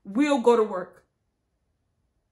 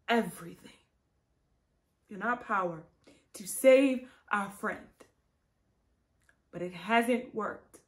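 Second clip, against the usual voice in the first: tragic heroine sorrow; 4 dB quieter than usual. Acted. Grieving eulogy speech.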